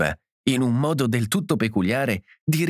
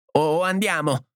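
higher-pitched, exasperated plea; crying out; 6 semitones higher than usual. A narrator's reading. Edith urging her husband to go, crying out. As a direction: cry out to leave, without much volume. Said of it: "gridò Edith".

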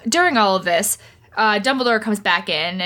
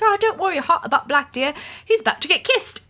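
higher, fast, sweetly dismissive nurse; doting nurse; 8 semitones higher, faster than usual. Retold or imitated. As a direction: pat him on the head with your voice. Nurse Pomfrey soothing Harry.

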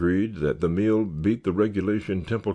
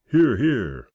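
higher, louder cue to the crowd; feed them their line; prompting cheer; 7 semitones higher, 6 dB louder than usual. A narrator's reading. Roy prompting the scouts to cheer, louder cue. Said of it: "Now you're supposed to say".

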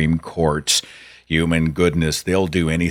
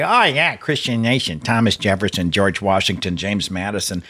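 mocking; 4 semitones higher than usual. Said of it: "they just lap it up and say".

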